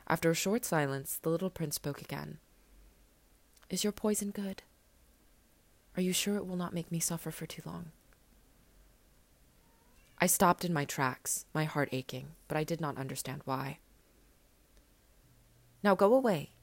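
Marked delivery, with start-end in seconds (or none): 3.7-7.9 lightly voiced young boy, a touch higher; a hint of a small boy, gentle and certain; little prince. Little prince tells the pilot to wait for him, lightly voiced young boy. 15.8-16.5 put-on louder, higher boyish order; urgent command. Little prince orders the snake away, louder and higher.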